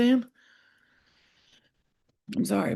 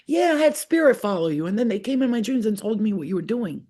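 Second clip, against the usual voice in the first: sassy; 5 semitones higher than usual. Retold or imitated. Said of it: "I was like".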